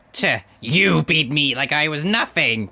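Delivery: slow, bitter nasal villain; defeated nasal boss; nasally annoying voice. Acted. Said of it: "gave him the nasally annoying voice".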